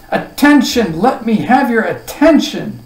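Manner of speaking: loud, high call for silence; insistent command. A narrator's reading. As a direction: demand the whole room's attention. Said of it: "insisted the king".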